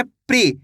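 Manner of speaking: प्री said as one syllable "pree"; teacher's model प्री, p and r joined; demonstrated PRI sound. Shown as a demonstration. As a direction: run p straight into ri in प्री. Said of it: "पा को कैसे पढ़ेंगे?".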